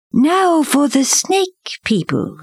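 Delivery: high, slow, drawn-out prompt; panther prompting. A narrator's reading. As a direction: set the next test in a high panther voice. Bagheera gives the next test.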